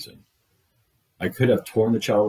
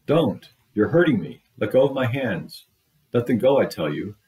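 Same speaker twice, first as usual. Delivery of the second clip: put-on loud, high child's protest; a child shouting to be let go; child's scream; 4 semitones higher, 3 dB louder than usual. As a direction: cry out against the grip. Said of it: "the child let out a scream".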